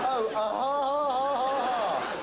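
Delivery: forced laugh. Acted. Fake laughter at joke.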